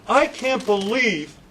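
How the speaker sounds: slow, whining imitation of the boss; mock a petulant executive, drawing it out; hammed-up complaint about his birthday, slow; whiny boss. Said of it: "he goes".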